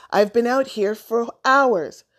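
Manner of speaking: high, loud complaint; crying out. A narrator's reading. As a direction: wail it like an indignant cat. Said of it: "he cried".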